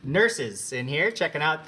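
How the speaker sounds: high, loud flustered bluff; nervous liar. Acted. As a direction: stammer a panicked fake excuse. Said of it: "a muffled voice from beyond the door".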